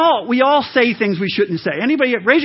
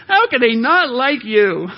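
mock crying; 3 semitones higher than usual. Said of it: "She go on Facebook".

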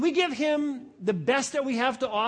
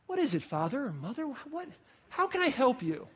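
politely attentive; 6 dB quieter than usual. Acted. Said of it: "instead of saying".

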